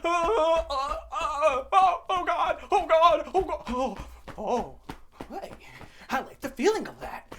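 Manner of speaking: high, loud whiny wail; mock crybaby. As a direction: wail like an overgrown toddler. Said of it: "he cries all the time".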